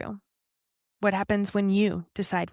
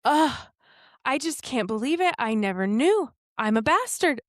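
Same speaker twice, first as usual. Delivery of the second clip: mock self-pity; 4 semitones higher than usual. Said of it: "what if I would have went throughout the rest of the day".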